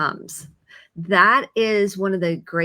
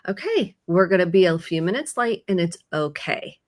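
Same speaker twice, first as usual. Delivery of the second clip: even, reassuring heads-up said aloud; composed parent keeping things okay; calm self-talk. Retold or imitated. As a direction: talk yourself through it calmly. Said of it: "can help my kid calm".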